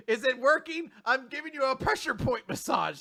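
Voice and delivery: eager enthusiasm. Acted. Recapper acts the girl pushing a foot massage, eager. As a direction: pipe up keenly, hammed-up.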